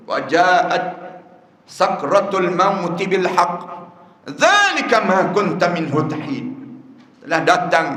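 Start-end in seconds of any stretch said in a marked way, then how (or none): 0.1-6.5 slow, chanted Arabic recitation; Quranic recitation. Acted. Preacher recites the king's plea in Arabic, slow and chanted. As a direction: intone the verse slowly and reverently.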